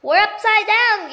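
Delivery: horrified gasp. A narrator's reading. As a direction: gasp it in horror. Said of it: "gasped Mister Twit".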